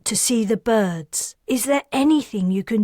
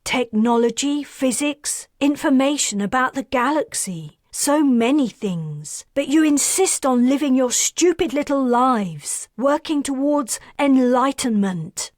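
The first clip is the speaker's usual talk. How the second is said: raised, much higher voice, slowing to hammer the last words; furious outburst; 6 semitones higher, 3 dB louder than usual. Acted. Karis rants at Perseus about Polaran stubbornness, furious and raised. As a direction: vent every frustration at the stubborn aliens. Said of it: "Are you angry?".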